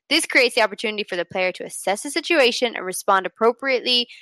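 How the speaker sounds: stiff reading off a page; robotic reading. Real, not acted. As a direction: read it like a script, a touch robotic. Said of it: "you were just a tad robotic".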